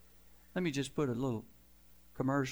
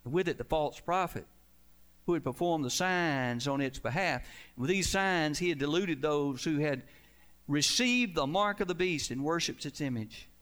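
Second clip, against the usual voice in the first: preaching at full force; 3 semitones higher than usual. Acted. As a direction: cry the verses out over the congregation. Reading Revelation with force.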